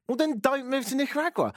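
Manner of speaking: high-pitched comic indignation; exasperated retort. Acted. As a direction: throw it back, exasperated. Exasperated retort to retold complaint.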